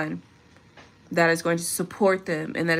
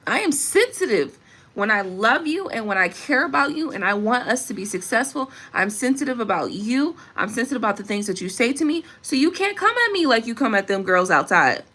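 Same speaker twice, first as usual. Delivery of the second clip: impassioned plea; 5 semitones higher than usual. Real, not acted. A woman telling her man not to come at her, impassioned. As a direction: build it into a fervent plea.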